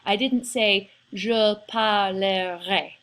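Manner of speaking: je parlerai, not over-spelled; "je parlerai" without three full syllables. Shown as a demonstration. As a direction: demo of the wrong pronunciation to avoid. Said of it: "It really doesn't have three syllables".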